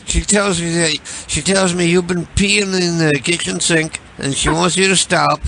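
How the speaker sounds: a hint of a put-on caller; lightly voiced prank caller. Holds Larry prank voice.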